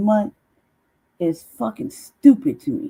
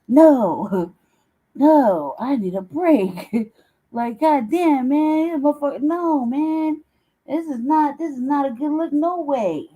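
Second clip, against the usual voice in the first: exasperated self; 6 semitones higher, slower than usual. Retold or imitated. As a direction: imitate your own flustered refusal. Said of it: "I was like".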